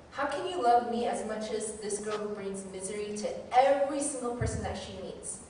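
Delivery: mock childish whine of being treated unfairly; whiny protest. Protesting to God, laughing.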